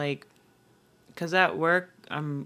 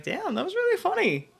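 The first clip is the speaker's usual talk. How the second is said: amused recollection. Retold or imitated. Laughing at own past self.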